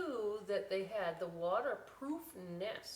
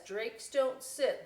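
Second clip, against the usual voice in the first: reading aloud; 4 semitones higher, 5 dB louder, slower than usual. Shown as a demonstration. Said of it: "And it says".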